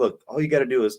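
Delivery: ordinary delivery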